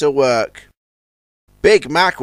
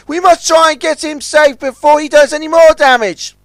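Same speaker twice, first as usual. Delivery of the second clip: high, loud urgent voice; 11 semitones higher, 6 dB louder than usual. Acted. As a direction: press them to hurry. Urgent rescue order.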